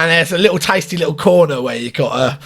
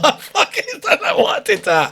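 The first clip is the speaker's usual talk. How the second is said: near tears. Retold or imitated. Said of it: "He's like".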